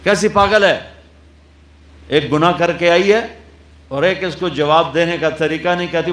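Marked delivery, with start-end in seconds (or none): 0.0-3.2 louder, higher indignant jeer; angry crowd. Retold or imitated. Angry townspeople mocking Maryam, loud and indignant. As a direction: spit out the insult, fast. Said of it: "تو غصے میں آ گئے".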